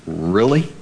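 doubting "really?", drawn upward; skeptical response. Acted. Gideon doubting the angel's greeting, mildly incredulous. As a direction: question it in mild disbelief. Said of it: "He's like".

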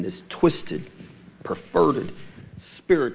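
whispered, low and drawn out; hushed emphasis. Real, not acted. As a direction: breathe the words out with disgust. Preacher stressing evil words.

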